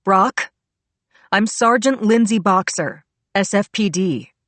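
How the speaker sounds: loud call down a long hall. A narrator's reading. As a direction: call across the chapel. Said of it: "I called out to Brock".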